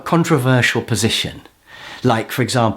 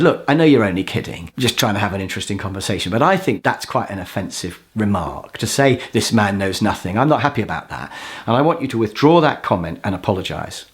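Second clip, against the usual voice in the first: measured, slightly lower demonstration; calm assertiveness; 4 semitones lower than usual. Shown as a demonstration. What he should have told the games player, calm and assertive. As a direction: state it evenly, without heat. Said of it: "I think I should have just remained calm".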